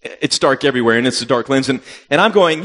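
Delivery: ordinary talk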